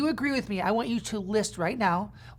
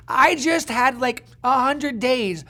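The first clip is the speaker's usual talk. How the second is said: incredulous regret; 3 semitones higher, 6 dB louder, much slower than usual. Acted. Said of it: "and you're like".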